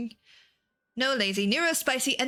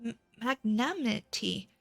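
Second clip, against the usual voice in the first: lightly voiced formal envoy, thankful; courtly, old-fashioned thanks; humble grateful envoy.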